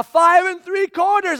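high, slow stretched shout. Retold or imitated. Pastor stretching the countdown for his kid, shouting. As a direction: drag the count out loudly. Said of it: "I shout now".

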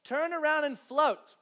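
firm call across the pool. Retold or imitated. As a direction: call the child from the patio. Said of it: "I heard my wife say".

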